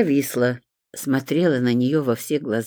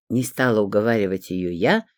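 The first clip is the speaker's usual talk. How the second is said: plain reading voice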